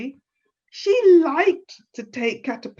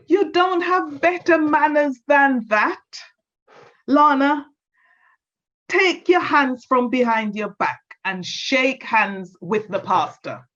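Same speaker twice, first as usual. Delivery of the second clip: scolding granny; 4 semitones higher, 3 dB louder than usual. Acted. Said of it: "Her grandma said".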